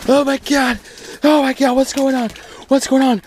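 real thrill over another catch; excited. Real, not acted. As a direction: pitch jumps way up in amazement. Big catch streak on ice.

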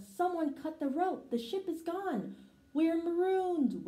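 rising panic as it sinks in; wailing. A narrator's reading. The mice find their ship gone, panicked high wail. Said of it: "wailed the mice".

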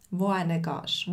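slow, careful Swiss German "wohin gehst"; Swiss German demo. Shown as a demonstration. Teacher showing learners Swiss German, slow and clear. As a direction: spell out "wohin gehst" slowly, Swiss style. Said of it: "wohin ist".

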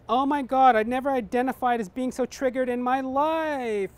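woman reacts to the monkey's insult; offended young woman. Acted. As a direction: gasp it out, scandalized. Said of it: "The young woman goes".

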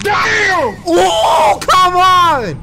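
high, loud exasperated shout; panicked yell. Real, not acted. Player chased by the monster, panicked yell.

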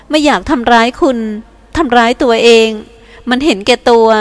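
เสียงหญิงสาวสูงขึ้น สำนึกผิดเบาๆ; พูดขอโทษอย่างรู้สึกผิด; แวนด้าสำนึกผิด สูงขึ้น. Acted. (แวนด้าขอโทษเอียน เสียงสูงสำนึกผิด)

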